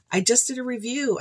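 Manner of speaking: breathy unvoiced whisper. Real, not acted. Vlogger whispering an aside to viewers. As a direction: drop to a whisper for a quick aside.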